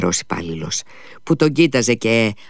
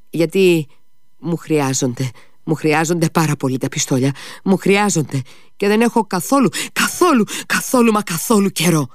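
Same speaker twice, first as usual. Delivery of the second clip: urgent insistence; 8 semitones higher than usual. A narrator's reading. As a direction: push harder on each καθόλου. Μήτια επείγεται για τα πιστόλια. (βιαστική, αγωνιώδης επιμονή)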